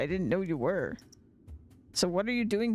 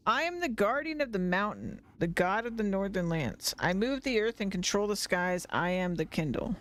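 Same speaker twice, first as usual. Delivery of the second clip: booming cave god. Acted. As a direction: rumble it out like an ancient guardian. Player voices the cave god.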